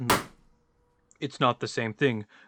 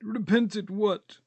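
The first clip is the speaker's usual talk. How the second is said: high, slow, wondering voice; Estragon's puzzled question; 8 semitones higher, slower than usual. Acted. Estragon puzzling over Vladimir's idea, high and slow. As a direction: stretch it out, baffled and high.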